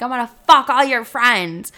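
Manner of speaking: loud, high mock outburst; exaggerated re-enactment of a furious threat; hammed-up threat. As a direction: blurt it like a retold tantrum. Quotes their own furious threat.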